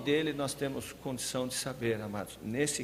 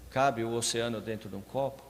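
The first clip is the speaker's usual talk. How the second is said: normal talking voice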